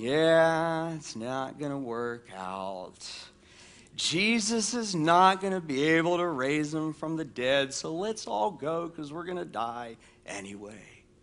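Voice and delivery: glum, somber voice. Speaker retelling Thomas's words to the disciples, in an Eeyore voice. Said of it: "I kind of picture here Eeyore".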